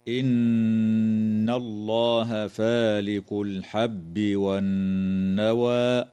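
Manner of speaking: slow, drawn-out chanted recitation; Quran recitation. Shown as a demonstration. Teacher recites the verse to students, slow chant. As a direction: recite slowly with tajweed, stretching each sound.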